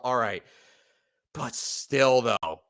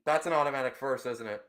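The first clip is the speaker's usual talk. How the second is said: stunned mutter; 2 semitones lower, 6 dB quieter, faster than usual. Real, not acted. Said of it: "I'm actually so pissed".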